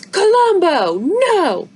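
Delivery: high, loud commanding shout at the dog; furious father yelling no; angry shout. Acted. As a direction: stop the dog dead with your voice. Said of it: "Izzy's father shouts".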